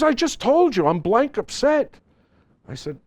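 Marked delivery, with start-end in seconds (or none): 0.0-2.0 high, mock-indignant boxer voice; lightly hammed-up retold Tyson; imitating Mike Tyson. Photographer retelling Mike Tyson's annoyed answer, high mock indignation. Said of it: "He says".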